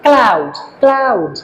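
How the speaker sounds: ক্লাউড drawn out slowly, gliding from a to u; slow pronunciation demo. Shown as a demonstration. Teacher showing students the two vowel sounds in ক্লাউড, slow and drawn out. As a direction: stretch ক্লাউড so both vowel sounds come through. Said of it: "ক্লাউড, দুটো আলাদা sound করছে".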